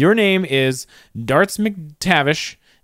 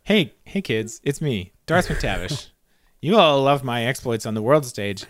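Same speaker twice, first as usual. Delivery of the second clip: lightly voiced spokesman addressing kids; mock-earnest announcer, pausing between phrases; Darts McTavish; 3 semitones lower than usual. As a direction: play a celebrity in a kids' public service spot. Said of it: "really getting into this character".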